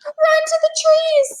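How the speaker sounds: very high loud cry to run; shouted. Acted. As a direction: scream at Jack to flee the tiger. Annie urges escape.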